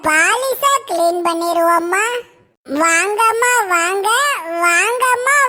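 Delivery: calling out to passing customers; singsong street hawker. Acted.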